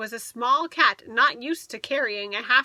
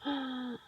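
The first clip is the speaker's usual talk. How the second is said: delighted gasp; 10 dB quieter than usual. Acted. Reader gasps in delight.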